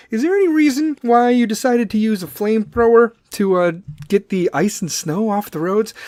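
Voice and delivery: a hint of a reporter's questioning voice; lightly played reporter. Pretend reporter questioning the flamethrower man, light reporter voice. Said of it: "I wish I was a fucking reporter".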